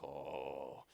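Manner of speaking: low, soft muttering to oneself; holding back frustration. Retold or imitated. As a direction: re-enact keeping your temper under your breath. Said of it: "take a deep breath".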